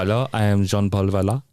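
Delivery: mock French accent, lightly done; hammed-up French Jean-Paul Valley. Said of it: "my French accent is brilliant".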